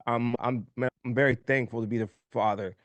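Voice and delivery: a real father, fighting back tears; choked up. Real, not acted. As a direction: let the emotion catch in the throat. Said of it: "I'm crying on that".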